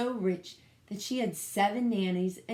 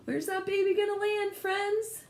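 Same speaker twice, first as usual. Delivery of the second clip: gasping suspense; 12 semitones higher than usual. Real, not acted. Teacher gasps, asks the class.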